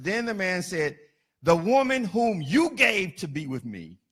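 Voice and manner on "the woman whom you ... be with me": whiny excuse. Acted. Adam blaming God.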